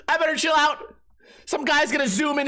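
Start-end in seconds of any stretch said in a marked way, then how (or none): 0.1-0.9 high hammed-up panic, stress on I; mock panic. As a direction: fake panic again, pushing I.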